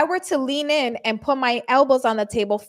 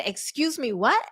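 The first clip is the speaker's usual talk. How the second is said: incredulous; 3 dB quieter than usual. Retold or imitated. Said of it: "my face that said".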